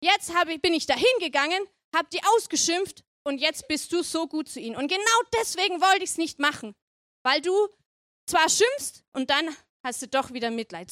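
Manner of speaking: mock-indignant grumbling at God; verärgert. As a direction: play a miffed prophet having a moan. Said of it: "ärgert er sich richtig". (gespielt beleidigt meckernd)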